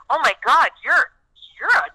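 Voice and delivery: very high, slow laughing awe; fake-amazed gush at a nurse's job; high, drawn-out laughing wonder; mock awed gush. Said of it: "I'm like".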